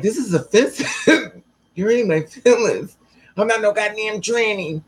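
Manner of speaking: high-pitched mock-hurt objection; offended protest. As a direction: play up the wounded indignation, pitched high. Acts out own offended protest.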